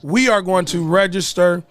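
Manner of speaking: chewing while talking; talking through a bite of food; mouth full. Real, not acted. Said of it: "boy, what is you eating?".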